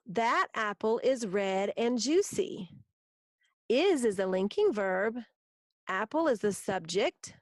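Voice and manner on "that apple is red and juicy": slow, clear dictation of a sample sentence; dictation pace. Shown as a demonstration. Teacher reading a sample sentence slowly for students to write. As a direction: read each word out for the class to copy. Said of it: "Here's a sample".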